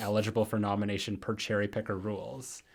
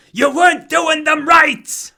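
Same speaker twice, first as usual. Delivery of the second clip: high, loud, slow ghostly wail; poltergeist voice; 13 dB louder, slower than usual. Shown as a demonstration. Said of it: "In my poltergeist voice".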